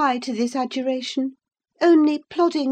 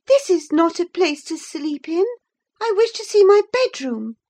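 sharp, louder indignant protest; angry outburst; 5 semitones higher, 5 dB louder than usual. Acted. Gentleman rounding angrily on the old servant. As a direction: snap at the servant in outrage. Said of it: "facing him angrily".

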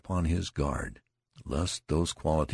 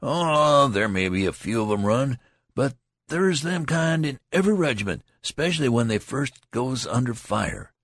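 tolerant; 9 semitones higher, 6 dB louder than usual. A narrator's reading. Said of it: "in a tolerant way".

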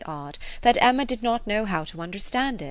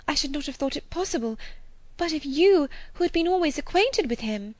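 put-on mildly agitated, higher young woman; agitated Harriet; 6 semitones higher than usual. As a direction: defend your feelings with trembling earnestness. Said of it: "a voice nearly as agitated".

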